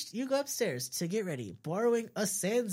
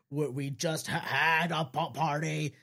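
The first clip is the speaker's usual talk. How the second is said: exasperated; 2 semitones lower than usual. Acted. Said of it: "says an exasperated error".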